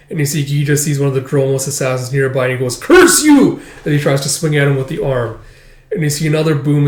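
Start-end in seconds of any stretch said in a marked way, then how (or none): 2.8-3.6 loud, high battle curse; angry shout. Acted. Fighter swinging at an assassin, angry yell. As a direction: hurl the curse at your attacker.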